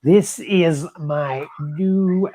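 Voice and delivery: slow, high, hammy American accent; bad American accent. Shown as a demonstration. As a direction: ham up a cheesy American accent. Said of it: "like, real bad, like, P G kind of American".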